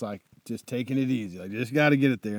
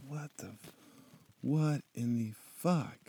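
stunned murmur; 10 dB quieter than usual. Retold or imitated. Rider arriving at the Ushuaia pillars, dazed murmur. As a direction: barely breathe it out, stunned.

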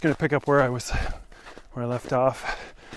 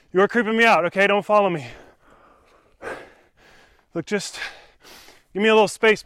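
firm warning; 4 semitones higher, 5 dB louder, faster than usual. Real, not acted. Telling follower to back off.

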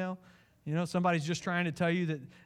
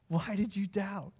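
gentle question; 4 semitones higher than usual. Acted. Jesus asking Peter kindly why he doubted, gentle and calm. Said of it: "because inflection matters".

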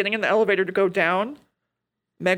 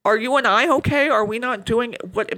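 gentle check-in; 3 semitones higher than usual. Retold or imitated. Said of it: "kind of checks in with his kid".

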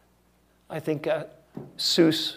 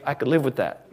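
mock congregant; 3 semitones lower than usual. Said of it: "Some of you are saying".

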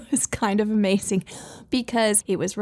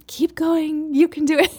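excited cheering; 8 semitones higher, 5 dB louder than usual. Retold or imitated. Toddler thumbs up cheer.

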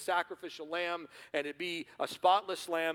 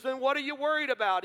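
puzzled Smith; 9 semitones higher, 6 dB louder than usual. Retold or imitated. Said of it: "And he goes".

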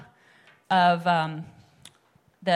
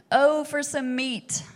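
drawn-out, slow, higher craving cry; mock exclaim; 6 semitones higher, 4 dB louder, much slower than usual. Israelites craving meat, mock exclaiming. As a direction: moan for meat like a hungry Israelite. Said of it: "they exclaimed".

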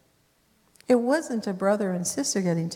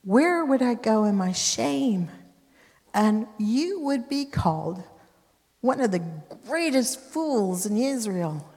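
pleading Tamar; 3 semitones higher than usual. Acted.

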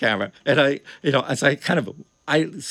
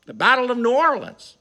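stage announcement; 6 semitones higher, slower than usual. Retold or imitated. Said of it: "I says".

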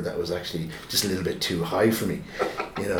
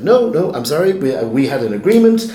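put-on higher, louder no from a stubborn boy; defiant refusal; 5 semitones higher, 7 dB louder than usual. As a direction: refuse him, standing firm. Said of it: "And I said".

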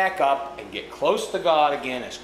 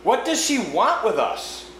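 cautiously; 8 semitones higher, 4 dB louder than usual. A narrator's reading. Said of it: "asked Scrub cautiously".

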